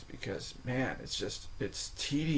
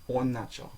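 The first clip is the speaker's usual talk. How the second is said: Он начал, with на stressed in начал; stress on first syllable. Shown as a demonstration. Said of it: "the stress changes according to form".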